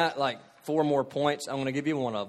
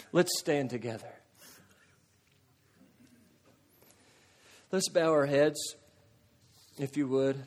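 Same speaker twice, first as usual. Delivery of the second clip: pastoral prayer invitation; 4 dB quieter, faster than usual. Acted. Invites congregation to come and pray.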